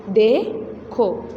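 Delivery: देखो drawn out slowly with a heavy, long ए; heavy ए sound. Shown as a demonstration. Teacher to pupils, slow heavy ए in देखो. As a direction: stretch the ए in देखो, weighty and slow. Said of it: "भारी sound में हम पढ़ेंगे".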